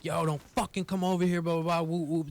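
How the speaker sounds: high, loud warning yell; retold screaming. Yelling at friends in the car to stay back. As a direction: shout the friends away from the car. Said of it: "I was screaming like".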